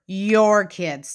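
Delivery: "your" singled out with weight; stress on YOUR. Retold or imitated. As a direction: press on "your" inside the quote. Quoting Robin with pointed emphasis.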